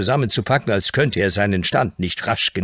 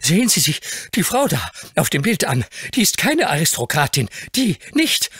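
put-on much higher, urgent boy's voice; agitated boy; 10 semitones higher than usual. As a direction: press the point breathlessly. Dick points at the picture.

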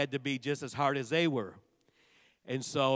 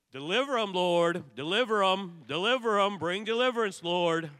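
loud, higher calls of deliver 'em, Lord; fervent prayer shout; 3 semitones higher, 4 dB louder than usual. Retold or imitated. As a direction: cry out to God for deliverance. Retelling fervent prayer in service.

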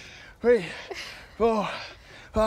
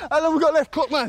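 strained and winded, pitched up; out of breath; 7 semitones higher, 3 dB louder than usual. Real, not acted. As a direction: gasp it out mid-workout. Asking for time during exercise.

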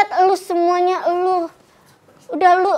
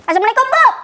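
sweet phone greeting; 4 semitones higher, faster than usual. Acted. Pretend phone call to boyfriend.

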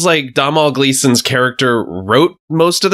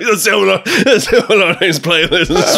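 put-on Canadian accent; 4 semitones higher than usual. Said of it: "Best Canadian accent I've ever heard".

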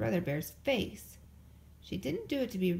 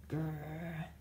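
growl; 5 semitones lower, 6 dB quieter than usual. A narrator's reading. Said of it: "said Brother".

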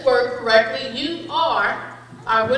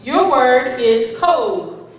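pronouncer voice; 4 dB louder, slower than usual. Acted. Spelling bee pronouncer reading word.

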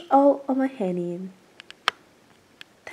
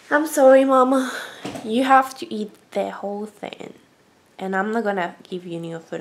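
gentle but firm to the bird; sorry but stern, speaking to Mama; firm talk to pet; 3 semitones lower than usual. Real, not acted. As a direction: scold the pet lovingly. Talks firmly to her pet.

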